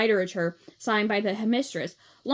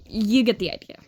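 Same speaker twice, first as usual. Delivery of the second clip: whispered aside; 4 dB louder than usual. Real, not acted. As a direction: let it drop to a whisper.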